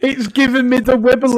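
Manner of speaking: high mocking whiny voice; mocking childish voice. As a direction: mimic a little kid. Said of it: "How old are you".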